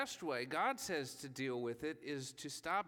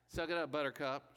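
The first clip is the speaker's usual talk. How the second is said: wife's blunt advice. Retold or imitated. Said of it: "she would say".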